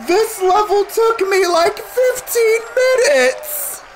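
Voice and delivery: high-pitched, exasperated disbelief; incredulous exclamation. Real, not acted. Player on a level that took fifteen minutes, incredulous. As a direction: squeal it out, drained but amazed. Exclaims after long struggle.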